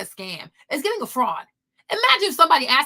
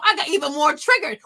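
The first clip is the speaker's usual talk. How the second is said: ordinary talk, nothing marked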